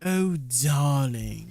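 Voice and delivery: slow, drawn-out mock posh "Oh, darling"; lightly imitating a posh English accent. Teasing a viewer about sounding posh, mock posh English accent. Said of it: "when they speak like that?".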